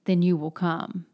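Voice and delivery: firm, understated command. Acted. Brother tells her she must go see Mitya, mildly firm. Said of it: "Alyosha says firmly".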